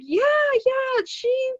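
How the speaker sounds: very high, loud, drawn-out mom impression; hammed-up motherly agreement; emphatic mother. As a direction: drag it out loudly like a mother confirming it. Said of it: "she's like".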